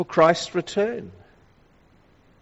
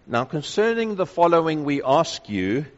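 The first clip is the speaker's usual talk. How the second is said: measured lecture-style request; academic. Shown as a demonstration. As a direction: say it like a matter-of-fact lecturer opening a topic. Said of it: "it sounds rather academic".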